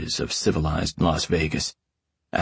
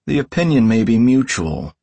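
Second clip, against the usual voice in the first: higher, louder growled comeback; growling reply; 5 semitones higher, 5 dB louder than usual. Acted. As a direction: growl it back defiantly. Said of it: "I growl back".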